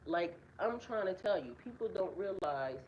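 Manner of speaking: hushed so the birds stay calm; whispering. Real, not acted. Talking to viewers while near feeding birds, hushed. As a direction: keep it low, hushed under your breath. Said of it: "why I'm whispering".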